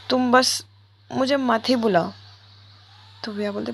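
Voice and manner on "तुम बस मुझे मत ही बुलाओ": louder, curt refusal; cold rebuff. Acted. Tanu tells Viya not to call her, louder and curt. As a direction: shut her down firmly.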